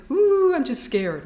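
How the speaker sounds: a gentle, half-acted scared sigh; acknowledging fear. Shown as a demonstration. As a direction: own it out loud, lightly scared. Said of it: "we just say or think".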